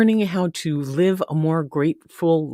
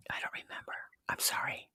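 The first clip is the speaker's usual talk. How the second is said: whisper; 18 dB quieter, faster than usual. Real, not acted. Aside after forgetting Robin's location.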